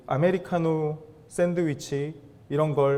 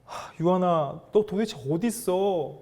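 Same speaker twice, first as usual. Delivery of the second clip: worried parent calling. Acted. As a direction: call for your missing little child with concern. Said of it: "제가 제 어린 딸을 키우다 보니까".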